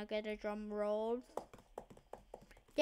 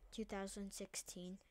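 whisper; 3 semitones lower, 13 dB quieter than usual. Acted. Date trailing into a whisper.

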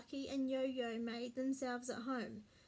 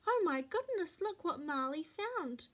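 louder, high-pitched exclaiming; excited calling out; 6 semitones higher, 5 dB louder than usual. A narrator's reading. Mummy and Cassie find kittens by the road, excited exclaiming. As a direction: exclaim over a sweet discovery. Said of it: "Mummy called out".

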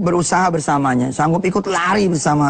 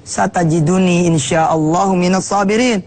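lightly chanted, a bit slow; Quran recitation; slower than usual. Acted. Preacher quotes Ismail's promise of patience, lightly chanted. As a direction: recite the Arabic verse gently. Recites next verse, Arabic.

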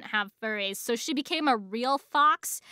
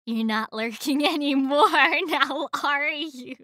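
teasing threat, slowing at the end; mock menacing taunt. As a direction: play a gloating captor, half laughing. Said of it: "and be like".

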